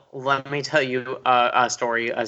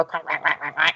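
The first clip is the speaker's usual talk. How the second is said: imitated duckling quacks; quick string of mock quacks; duck quacking; 2 semitones higher than usual. Character teaching guests animal noises, imitated duckling quacking. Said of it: "teaching us about animal noises".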